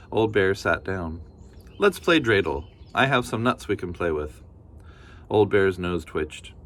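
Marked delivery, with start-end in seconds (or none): 1.8-4.4 a hint of a cheerful granny; kindly grandmother. Baba Brena thanking the bear, lightly voiced granny.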